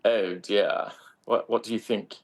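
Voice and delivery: light put-on British accent. Shown as a demonstration. Actor showing the interviewer an accent on request, tentative British. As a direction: try out a British accent, half-laughing by the end. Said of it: "Give me a nice British accent".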